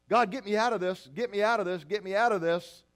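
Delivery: loud begging prayer; mock desperate plea. Praying person begging God to rescue them, loud plea. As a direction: plead with God, pressing.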